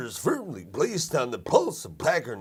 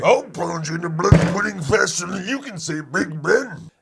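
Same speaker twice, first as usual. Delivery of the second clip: mock British accent; 3 semitones higher, 5 dB louder than usual. Threatening the British guest.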